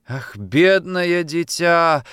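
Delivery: put-on drawn out, grieving for the child; pitying sigh. Mother pities daughter. (с жалостью, протяжно)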